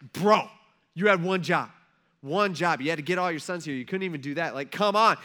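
punchy scolding, loud on the first words; mock exasperation. Samuel silently scolding Jesse for failing, exasperated. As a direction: chide him like a let-down buddy.

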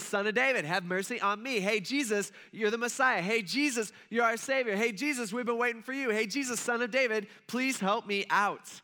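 mock shouting out to Jesus, begging; crying out. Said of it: "keeps crying out all the more".

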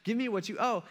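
high, drawn-out demand for payment; imitated menacing creditor; angry demand. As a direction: act out a creditor demanding money.

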